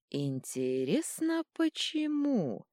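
slow, sly purr rising high on почему; the god teasing the troll, slow sly purr. A narrator's reading. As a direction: drawl it out like a cat toying with a mouse. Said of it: "промурлыкал Кипиш".

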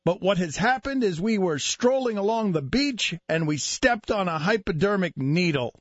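hammed-up breaking-news delivery with weighty pauses; measured, theatrical radio monologue; mock-dramatic newscast.

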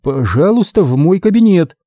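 high squeaky little voice. A narrator's reading. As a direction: squeak it out timidly. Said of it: "писклявым голоском произнёс".

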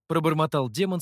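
plain reading voice

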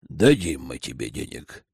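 a lightly voiced stern elder conceding; grudging elder. A narrator's reading. Elder grants money warily. (низко и сурово, старик уступает)

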